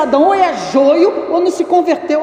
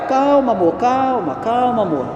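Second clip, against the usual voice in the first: soothing wife. Retold or imitated. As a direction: hush her like a calm husband. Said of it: "Eu falo assim com ela".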